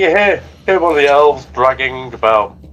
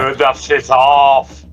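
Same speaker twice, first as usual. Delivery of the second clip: wrong voice; 3 dB louder, much slower than usual. Acted. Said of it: "wrong voice".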